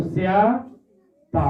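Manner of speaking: स्याता said slowly, syllable by syllable, as स्या-ता; slow spelled-out syllables. Shown as a demonstration. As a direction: draw out स्याता so students catch each syllable. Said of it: "उसी को में खाली स्या लग गया है".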